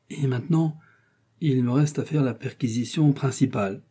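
a hint of hesitant unease; lightly voiced, awkward official; perplexed, embarrassed. Chancellor to the queen, announcing the search, mildly embarrassed. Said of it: "d'un ton très perplexe et d'un air fort embarrassé".

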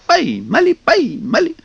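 very high, rising squeal; squealing kikimoras. A narrator's reading. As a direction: squeal in triumph like little sprites. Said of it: "верещат".

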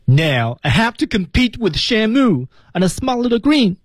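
high, drawn-out mock whine; slightly tearful. Teacher acts Alex stuck competing with Shamu, slightly tearful. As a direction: act it as a worried complaint on the edge of tears. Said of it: "略带哭腔".

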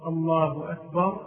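"أكبر" with a long aa before the final r; akbaar error. Shown as a demonstration. Teacher quoting the mistaken muezzin, "أكبر" as akbaar. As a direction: say "الله أكبر" with akbaar at the end. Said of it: "يقول في وصف الله عز وجل بهذا الوصف".

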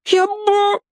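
put-on high, cut-off boy's plea; frightened captive interrupted; scared boy. A narrator's reading. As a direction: squeak it and get cut off.

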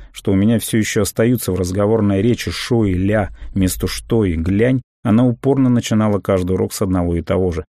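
plain reading voice

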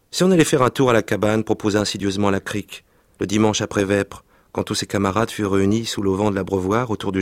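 lively reading aloud of a French novel; story reading. Acted. Reading a childhood novel aloud to the interviewer, expressive narration. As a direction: read the scene with vivid expression.

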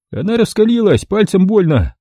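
high whining complaint; high squeaky man; whining thin voice. A narrator's reading. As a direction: whine about the pain.

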